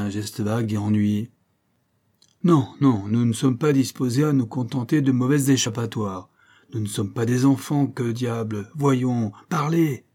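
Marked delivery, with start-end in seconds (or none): 2.4-10.0 firm commanding tone, pitched up; firm and authoritative. Acted. The governor pressing Keely to talk, firm and authoritative. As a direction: lay down the law, no more excuses. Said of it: "d'un ton si ferme, si autoritaire".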